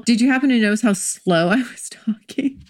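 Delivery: "slow" stretched out, with a little laugh; playfully drawled demo of slow talk. Shown as a demonstration. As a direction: drag out "slow" and "talking".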